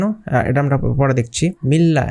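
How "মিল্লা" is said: মিল্লা with n merged into a doubled l; no hum, straight onto the l of মিল্লা; merged without ghunnah. Shown as a demonstration. Teacher forbids ghunnah here, মিল্লা joined on double l. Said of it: "মিলিয়ে পড়তে হবে".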